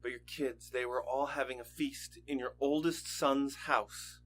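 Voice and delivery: hushed, heavy mourning tone; grave sorrow. Acted. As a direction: quietly tell a father his kids are dead. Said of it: "I'm sorry to tell you this".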